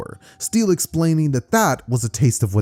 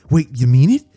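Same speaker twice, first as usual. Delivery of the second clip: hopeful excitement; 3 semitones higher, 4 dB louder than usual. Acted. Boy hopes to be hero.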